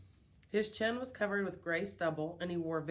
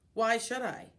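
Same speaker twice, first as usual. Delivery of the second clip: grumpy, raised growl; 4 dB louder than usual. Acted. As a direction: growl it like a grouch. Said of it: "Bert Brisbane growled".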